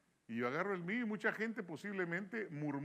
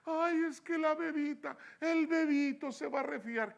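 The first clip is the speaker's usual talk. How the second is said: higher, mock whining about the baby; whiny parent excuse; 9 semitones higher, 5 dB louder than usual. Pastor mocking a parent who skips church for rain, high whiny mimicry.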